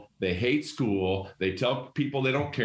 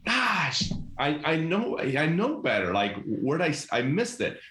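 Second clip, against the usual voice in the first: higher, mock exasperated at himself; self-scolding; 4 semitones higher, slower than usual. Principal voices himself noticing a mistake, mildly exasperated and higher. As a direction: catch yourself with a sheepish gosh. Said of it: "I can say".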